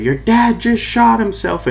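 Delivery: high, drawn-out mock scream of a panicked mom; imitated scream. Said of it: "my mom screams".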